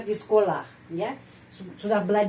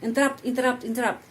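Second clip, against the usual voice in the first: choppy; 3 semitones higher, much faster than usual. Shown as a demonstration. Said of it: "Jangan seperti itu".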